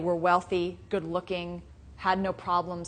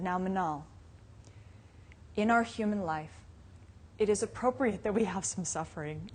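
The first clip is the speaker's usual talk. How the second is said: put-on softer, gentle father talking to a toddler; sweet fatherly tone; 7 dB quieter than usual. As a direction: soothe the pouting two-year-old kindly. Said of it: "it was so sweet".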